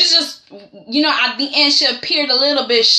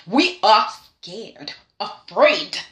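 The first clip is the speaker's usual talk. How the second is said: pleading; 3 semitones lower, slower than usual. Acted. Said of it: "pleading with Eric".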